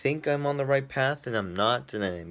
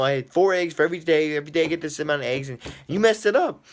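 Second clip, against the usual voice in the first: building from annoyed to higher and louder; faster, climbing into a mock outraged complaint; mock indignant rant; 4 semitones higher, 5 dB louder, faster than usual. Ranting about roommate eating eggs.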